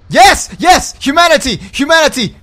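high, loud celebratory shouts; elated gamer shouting; triumphant cheering. Real, not acted. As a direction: cheer each word as a victory cry. Celebrates getting humanity.

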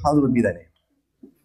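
low, slow droning recital; rote mumbled prayer. Retold or imitated. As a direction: rattle it off without meaning it.

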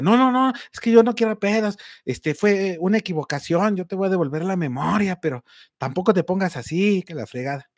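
lightly voiced thief backing down; pleading thief. Thief pleads over phone.

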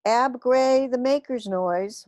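alien shout. A narrator's reading. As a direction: bellow it out slowly like a strange creature. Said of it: "one of them shouted".

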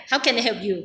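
each word placed slowly and carefully; slow deliberate English practice; careful slow take. Shown as a demonstration. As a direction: spell the phrase out slowly like a learner. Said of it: "คือเราจะเร็ว เร็วไม่ได้".

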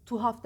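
tuhaf with the H dropped, "tuaf"; wrong pronunciation. Shown as a demonstration. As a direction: show the faulty "toaf" for tuhaf. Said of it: "tuhaf demeyin".

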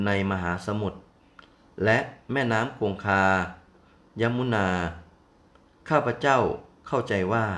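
slow, sweet-voiced plea; sweet pleading. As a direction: coax the crab with a honeyed voice. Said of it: "ด้วยเสียงอันหวาน". (นางช้างอ้อนวอนปูทองด้วยเสียงหวาน)

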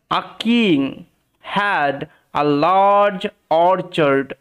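very slow, with clear gaps between words; careful word-by-word reading. Shown as a demonstration. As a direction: read it out for learners to follow. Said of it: "একদম ধরে ধরে পড়ার চেষ্টা করব". (ধরে ধরে, থেমে থেমে পড়া)

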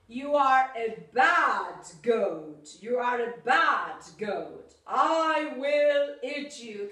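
a hint of a threatening troll; menacing monster.

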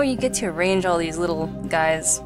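ordinary delivery

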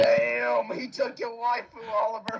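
loud, high excited shout; excited anime fan. Acted. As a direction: yell it like a thrilled fan. Teasing over a stolen waifu.

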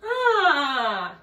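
put-on slow, swooping French-accented greeting. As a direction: try on a hammed-up French accent. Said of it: "trying to do a French accent".

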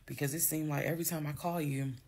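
talking through hiccups; hiccuping between words. Real, not acted. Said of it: "I have the hiccups, sorry".

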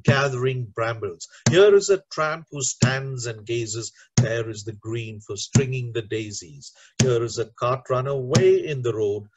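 poem recited with a driving, regular beat; rhythmic, emphatic poetry reading; steady train rhythm. Shown as a demonstration. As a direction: chug through the verse like a moving train. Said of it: "let me read out the other train poem".

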